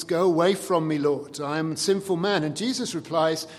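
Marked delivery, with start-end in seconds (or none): 0.0-2.4 louder, pleading cry of unworthiness; exclaiming Peter. Retold or imitated. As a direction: exclaim it, overwhelmed by his power. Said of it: "Peter sees the power of Jesus and exclaims".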